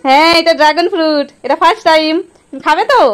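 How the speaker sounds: high, lively coaxing; bright coaxing. Real, not acted. Coaxing child to eat.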